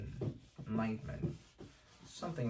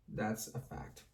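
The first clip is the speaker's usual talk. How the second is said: That's a fact whispered; conspiratorial whisper; whispered aside; 3 semitones lower, 8 dB quieter, slower than usual. Shown as a demonstration. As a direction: drop to a whisper for effect. Whispered repeat of the point.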